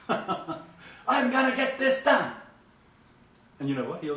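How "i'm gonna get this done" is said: determined vow. Retold or imitated. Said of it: "He has to get angry and go".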